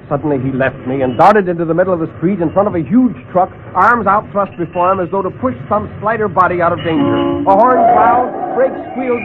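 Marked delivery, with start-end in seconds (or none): none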